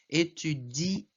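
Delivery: étudier said slowly, ending on ié; French infinitive demo. Shown as a demonstration. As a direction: draw out étudier. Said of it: "no caso do verbo étudier".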